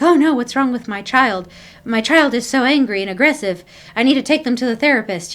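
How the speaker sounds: a touch of overdone parental panic; mock horrified parent. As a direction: play the alarmed parent who thinks something is badly wrong. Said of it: "instead of acting horrified".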